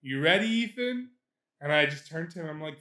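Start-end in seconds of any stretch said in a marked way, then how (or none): 0.0-1.1 manager. Retold or imitated. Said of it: "my manager just goes".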